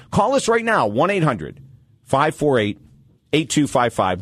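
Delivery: punchy station identification read; radio show announcer. Real, not acted. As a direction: announce the show with swooping emphasis on key words.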